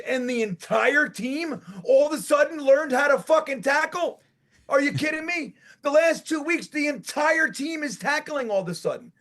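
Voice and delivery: can't believe what he's seeing; worked-up disbelieving rant; incredulous. Real, not acted. Incredulous rant about tackling.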